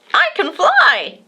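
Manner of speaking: high, loud, cheering; child cheering as the kite flies, excited. A narrator's reading. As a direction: cheer him on with joy. Cheering the kite's flight.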